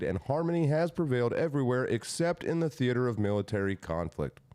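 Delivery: formal, rolling oratory; proclamation reading. Acted. Reading Lincoln's civil war proclamation, declaiming. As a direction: sweep through the long clauses like a speech.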